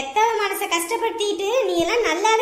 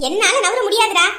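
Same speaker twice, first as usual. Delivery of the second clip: defiant refusal; 4 dB louder than usual. Acted. Mother refuses to move aside.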